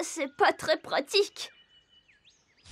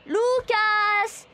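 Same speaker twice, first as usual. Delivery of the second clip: calling a friend's name across a field; searching call, rising at the ends; 5 semitones higher, much slower than usual. Acted. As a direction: call out Lucas, the middle call loudest and highest.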